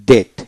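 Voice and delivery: "ডেট" with no b before the t; silent B. Shown as a demonstration. Teacher showing learners a silent letter, "ডেট" without B. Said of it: "এখানে বি উচ্চারিত হবে না".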